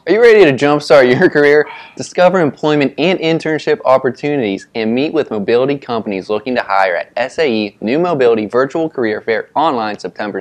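reading a sponsor script aloud. Real, not acted. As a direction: ad read with mouth burning. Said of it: "read whatever we posted, word for word".

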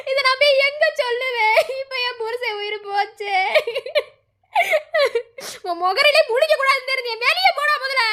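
weeping, then sending him out in tears; crying anger. Acted. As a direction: grief breaking into anger. Widow weeps, orders son out. (அழுகையுடன் கோபமாக விரட்டுதல்)

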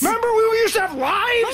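high, loud, bitter yelling; husband shouting at his wife about their lost sleep; furious shout. Acted. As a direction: let years of exhaustion explode at her.

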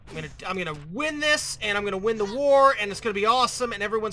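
loud, determined burst of optimism; self pep talk. Real, not acted. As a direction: talk yourself up with rising confidence.

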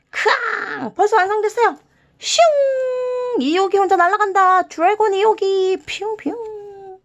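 high, loud, bouncy playtime voice; a teacher voicing the dragon car zooming off; playful kid voice. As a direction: play with the toy like a delighted child. Playing with finished dragon car.

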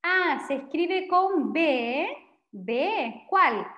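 conversación actuada, despacio al decir "con B"; diálogo imitado. Shown as a demonstration. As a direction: como alguien que pregunta. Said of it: "si te preguntan". (ejemplo de diálogo, tono animado)

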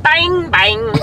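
loud, high, laughing bang bang. Real, not acted. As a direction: laugh through the words. Echoing joke while laughing.

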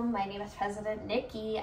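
put-on playful Valley Girl lilt; ditzy Valley Girl intro; Valley Girl accent. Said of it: "I'm talking in a Valley Girl accent".

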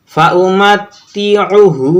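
slow, with the last "হু" of ফাউমাত্তিউহু held long; drawn-out final syllable. Shown as a demonstration. Teacher demonstrates the long হা, end of ফাউমাত্তিউহু held. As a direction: stretch only the end of ফাউমাত্তিউহু. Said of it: "হা টেনে পড়বো".

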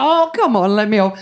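flirty plea. Retold or imitated. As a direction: sweet-talk the warden.

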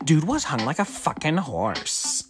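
put-on gossipy girl voice.

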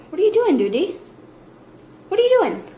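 put-on high sing-song baby talk. Mother calling to her baby.

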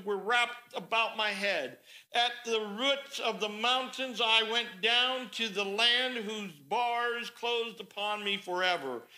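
slow, measured recital of a prayer; scripture reading. Acted. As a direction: read the psalm out with drawn-out phrases. Reads Jonah's prayer aloud.

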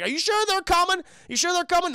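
high, anxious repeated question; mock jittery high voice; nervous henchman. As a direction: fret that they won't show.

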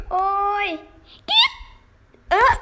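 breaking into a laughing yelp; laughing cry. Real, not acted. Gamer caught by the killer, laughing yelp. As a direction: laugh out a panicked ouch. Laughing panic during chase.

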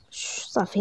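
voiceless shush to calm her; hushing. A narrator's reading. Man calming the crying bride, soft hush.

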